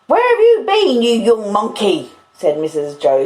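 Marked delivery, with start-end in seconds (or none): 0.0-2.1 high, loud shout of an angry sister; shrieked demand at a naughty child; shouty scolding. Acted. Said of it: "I always thought she'd be quite shouty".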